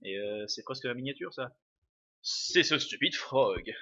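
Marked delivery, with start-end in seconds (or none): 2.2-3.7 slow, lightly voiced villain; Magus villain voice. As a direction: sneer it out slowly like a dark lord. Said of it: "donne une bonne voix à Magus".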